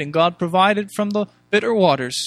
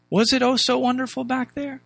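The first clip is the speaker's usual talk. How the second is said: higher, doubting rhetorical question; raised pitch, questioning the claim; sceptical question; 5 semitones higher than usual. Real, not acted. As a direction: challenge the rosy memory, pointedly. Questioning that same rosy memory.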